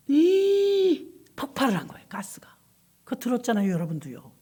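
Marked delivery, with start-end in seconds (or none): 0.1-2.6 dramatic whisper. Retold or imitated. Dramatic retelling of gas explosion.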